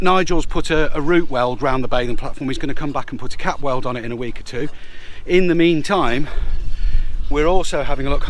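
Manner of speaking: breathless, catching breath between phrases; winded, gasping a little between words. Real, not acted. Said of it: "I'm so out of breath".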